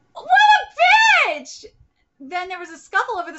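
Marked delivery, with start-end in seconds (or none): 0.1-1.6 loud, slow outraged yell; outraged shout. Real, not acted. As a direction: spit it out in pure disgust. Outraged at the villain's threat.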